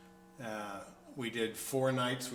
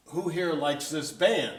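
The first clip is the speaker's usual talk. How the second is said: put-on slow, a bit higher and louder, with a heavy French accent; 5 semitones higher, 6 dB louder, slower than usual. Festival founder asks the crowd, heavy French accent. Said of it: "in a heavy French accent".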